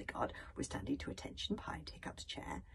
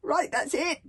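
loud, raised-pitch booming outburst; 9 semitones higher, 8 dB louder, slower than usual. A narrator's reading. Stoic finds an excuse to sack his bodyguard, booming. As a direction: boom it like a chief at his limit. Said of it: "boomed Stoic the Vast".

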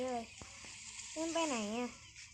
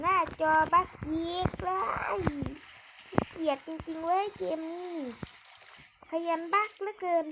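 annoyed complaint; 5 semitones higher than usual. Real, not acted. Gamer complaining to viewers about the glitch, annoyed. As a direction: vent at the glitchy screen. Game screen glitching again.

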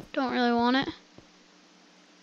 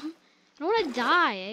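laughing; 3 semitones higher, 4 dB louder than usual. Real, not acted. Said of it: "I'm, like, crying right now".

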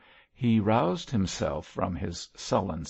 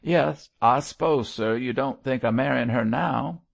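eager rough convict; 5 semitones higher, 6 dB louder than usual. A narrator's reading. Mosk asks eagerly.

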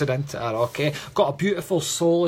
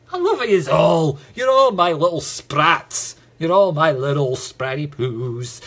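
loud, slow pet-name cooing; doting; 4 dB louder than usual. Real, not acted. Medium doting on his viewers with silly pet names, loud cooing. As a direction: lay on the affection for the fans.

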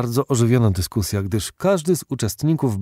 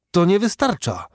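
vehement objection; 10 semitones higher, 5 dB louder than usual. A narrator's reading. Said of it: "gwałtownie oponował J T Maston".

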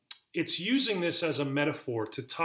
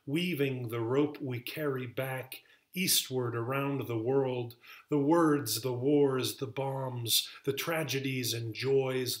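poetry reading. Acted. Poet laureate reads Plymouth Cordage to listeners, measured poetry reading. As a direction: recite it phrase by phrase, letting each image land. Reads own poem aloud.

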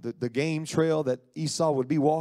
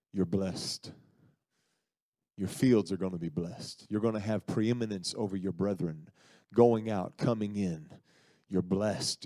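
put-on a lower, solemn blind old father pronouncing a blessing; old father prophesying; 5 semitones lower, 3 dB quieter than usual. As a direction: intone it low like the old patriarch. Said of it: "he begins to prophesy".

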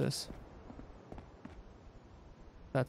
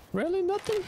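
incredulous. Real, not acted. Disbelief at empty loot.

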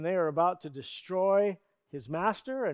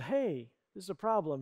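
softer, unbothered mock remark; casual understatement; 6 dB quieter than usual. How the servant surely didn't say it, casually. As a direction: say it as if nothing much is wrong. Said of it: "I don't think he just said".

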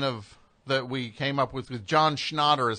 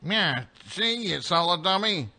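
impression of a singer; 3 semitones higher than usual. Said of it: "Okay, do it again".

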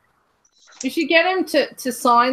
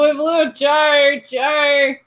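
calling out; 3 semitones higher, much slower than usual. Real, not acted. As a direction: call out to the room. Calling out for lost caller.

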